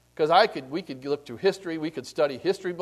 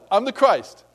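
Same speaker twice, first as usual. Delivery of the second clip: a touch of bragging, less raised; milder mock boast; 5 semitones higher, 7 dB louder than usual. Preacher repeats the bragging line, milder. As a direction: repeat it half-heartedly. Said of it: "go around saying".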